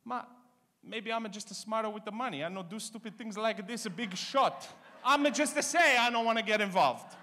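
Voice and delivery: put-on high, Italian-accented mom praising; Italian mother. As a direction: sweet-talk it like a mother before the dig. Mother voiced in story.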